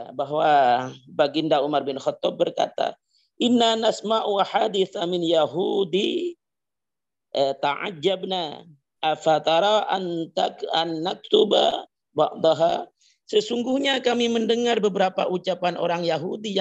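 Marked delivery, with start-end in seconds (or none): 3.4-12.9 slow, measured recitation; Arabic hadith recitation. Acted. Preacher quoting Umar's words to his listeners, slow Arabic recitation. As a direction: recite the Arabic slowly, phrase by phrase.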